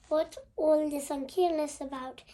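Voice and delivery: put-on mild action hero Future Boy voice. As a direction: lightly play the TV hero with some action edge. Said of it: "I said in my Future Boy voice".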